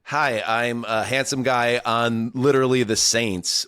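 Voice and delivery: a light Irish lilt on a cocky pickup line; lightly put-on Irish accent, smug; mock Irish brogue. Podcast host voicing Irish kicker Charlie Smith smooth-talking in the French Quarter, light Irish brogue. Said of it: "a lilting Irish brogue".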